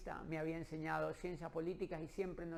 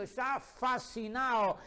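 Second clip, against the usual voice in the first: fascinado; 6 semitones higher, 6 dB louder, slower than usual. Retold or imitated. Describe al decano fascinado.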